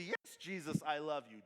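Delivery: tossed-off, self-satisfied "Yes, Jesus, I love you"; smug and easy. Shown as a demonstration. Complacent churchgoer answering Jesus glibly, smug and easy. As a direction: say it as if it costs nothing. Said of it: "Do not say it so smugly or easily".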